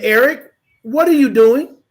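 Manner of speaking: measured, controlled question; very calm. Retold or imitated. To Eric as his hand comes toward my head, very calm. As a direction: keep your voice calm and even. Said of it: "In a very calm voice".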